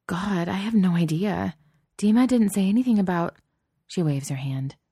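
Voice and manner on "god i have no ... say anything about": agitated. Acted. Shaken after fleeing ghouls.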